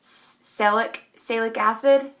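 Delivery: "salic acid" said haltingly, cut short for salicylic; "salic acid" shortened, unsure; stumbling pronunciation. Real, not acted. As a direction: trip over "salic" then settle on "salic acid". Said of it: "I can never say this word right".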